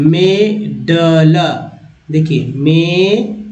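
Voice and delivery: मेडल drawn out slowly, clearly; slow, careful मेडल; slow demo word. Shown as a demonstration. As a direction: stretch मेडल out for the learner. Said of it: "मिडल में ए को अ बोलते हैं".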